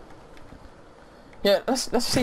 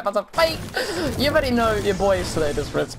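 usual speaking voice

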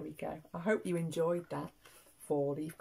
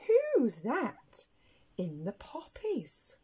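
rabbit's question; 5 semitones higher, slower than usual. Acted. Rabbit asking who is in the poppies, high curious question. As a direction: ask it high with playful wonder. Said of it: "Rabbit says".

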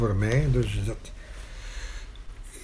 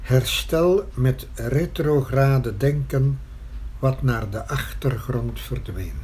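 measured poetry reading with long pauses; poem recitation. Acted. Poet reciting verse about painting their existence in writing, measured recitation. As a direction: recite line by line, letting each phrase stand.

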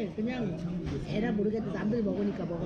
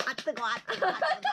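talking through hot food; hot bite, words round it; mouth full of hot food; 4 semitones higher, much faster than usual. Real, not acted. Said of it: "왜 이렇게 뜨겁냐".

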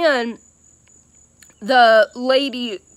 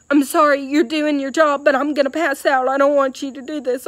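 anxious pleading; 3 semitones higher, faster than usual. Retold or imitated. Pleading with nurse drawing blood.

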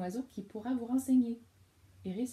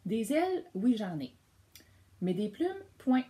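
murmured butterfly; 3 semitones higher, 6 dB louder than usual. Acted. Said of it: "murmura Zéphyr".

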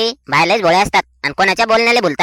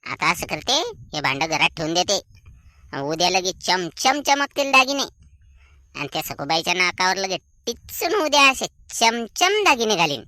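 sly aside; 5 dB quieter than usual. Acted. Con woman's scheming aside.

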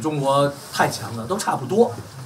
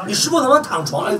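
1 mocking taunt; 8 semitones higher than usual. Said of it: "王八蛋回来骂我".

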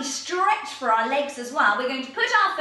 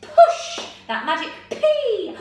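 louder, higher, pushed-out voice; projecting; 5 semitones higher, 7 dB louder, slower than usual. Shown as a demonstration. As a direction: push each word out loud and slow. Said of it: "really project".

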